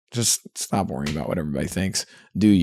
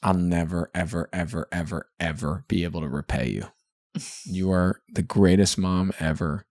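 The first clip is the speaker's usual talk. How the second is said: voicing baby, tender; 2 semitones lower, 3 dB quieter than usual. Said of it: "I think he'd say to Mom".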